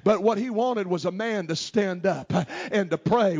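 ordinary talk

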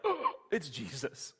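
sudden joyful recognition; gasping realization. Acted. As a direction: gasp then slow, laughing recognition. Disciples recognize Jesus.

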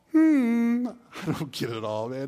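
musing hum, then a loose casual voice; Peter puzzling. Retold or imitated. Peter admitting Paul's letters baffle him, casual musing. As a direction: play Peter scratching his head over Paul. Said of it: "Like Peter says in Second Peter".

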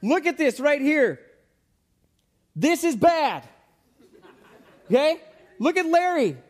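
high, loud urgent warning to friends; alarmed smart mouse. Pretend. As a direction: call the others over in alarm. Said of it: "And he would say".

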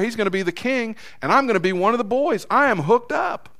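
cocky inner voice, rising in excitement; scheming Judas. Acted. Preacher voicing Judas dreaming of riches, lightly hammed.

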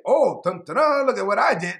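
lightly acted bragging with a fanfare; mock boasting. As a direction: imitate people showing off their good deeds. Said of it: "So that no one can boast".

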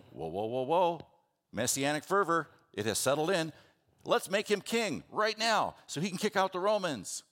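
high, loud messianic fervor; rally the crowd to crown him now; a preacher voicing a fired-up crowd; excited crowd.

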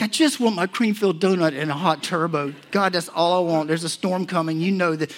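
retold put-upon protest; mock pleading. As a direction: plead your case, playing it up. Retold protest to God over donut.

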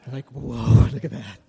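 blown away by the singing, let it burst out; amazed whoa. Real, not acted. Guest principal reacting to the church choir, amazed shout.

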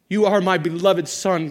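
a lighter, moderate quote of God. Acted. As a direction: say it as God, but restrained. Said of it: "God said".

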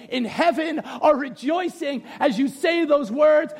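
slow preaching with drawn-out endings; fervent preaching. Real, not acted. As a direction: build to an emphatic, stretched last phrase. Preaches assurance to the church.

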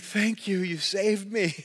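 soft, relieved mock gratitude; relieved thanks. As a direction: thank your rescuer quietly and earnestly. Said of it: "And I'm like".

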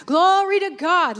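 loud, high shout of praise; lifted voice. Retold or imitated. Preacher voicing the man now fully lifting his voice in praise. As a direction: lift your voice on it. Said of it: "lift his voice".

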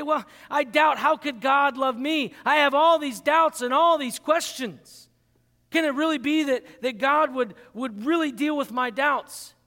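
mild pleading worry; anxious doubter. Acted. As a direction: voice a believer's fearful doubt. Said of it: "we might say".

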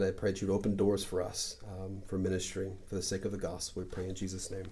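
soft, quiet prayer voice; closing prayer. Real, not acted. Pastor closing the study, praying softly. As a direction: pray gently over the congregation.

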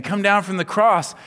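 mock heckler's call; acted mocking. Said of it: "these people are mocking Jesus".

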